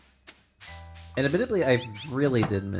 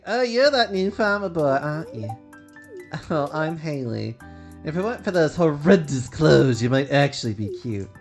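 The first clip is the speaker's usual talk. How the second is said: lightly voiced snobby Haley; a hint of a stuck-up girl; snooty girl voice; 4 semitones higher, 4 dB louder than usual.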